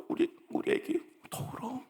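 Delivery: put-on softly whispered to a baby; tender whisper. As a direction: hush the little one tenderly. Soothing the crying child. (아기를 달래는 부드러운 속삭임)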